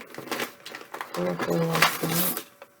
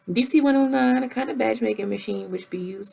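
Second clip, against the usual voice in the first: mock street voice; 3 semitones higher, faster than usual. Reading a gadget description aloud, hammed-up street voice. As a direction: ham up the product text in a put-on street voice. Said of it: "I'm gonna read it like a ghetto".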